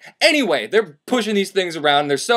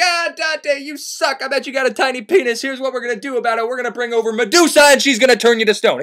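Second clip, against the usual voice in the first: put-on higher, sneering mean-girl taunt; a pack of Furies mocking him, half laughing; high teasing voice, a bit faster midway; 6 semitones higher than usual.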